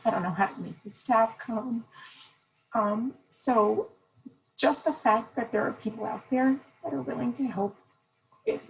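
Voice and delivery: real emotion pushing the voice up; emotional, near tears. Real, not acted. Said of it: "I'm gonna actually get a little emotional".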